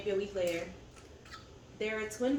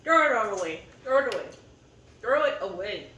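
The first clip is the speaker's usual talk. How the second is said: louder, fed-up cry to toss it all; exasperated outburst; 7 dB louder than usual. Real, not acted. Fed up with her city, telling viewers, a loud exasperated outburst. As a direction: let it burst out, done with everything.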